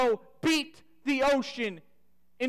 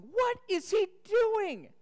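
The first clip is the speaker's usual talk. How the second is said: puzzled disciples; 8 semitones higher, slower than usual. Retold or imitated. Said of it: "the disciples are looking up going".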